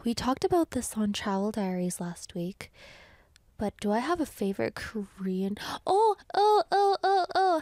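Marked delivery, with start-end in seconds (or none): 5.9-7.6 high, loud burst of sudden recall; excited oh oh. Real, not acted. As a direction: shout it as it hits you. Suddenly remembering favorite.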